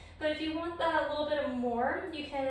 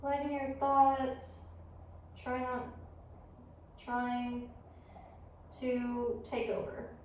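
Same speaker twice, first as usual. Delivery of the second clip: yoga guidance; 6 dB quieter than usual. Real, not acted. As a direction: guide them gently through the pose, leaving room to breathe. Leads yoga practice.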